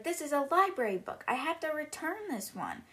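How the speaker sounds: lightly acted child's complaint; Matilda upset. Matilda tells her father it is a library book, mildly upset. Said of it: "Matilda's getting upset".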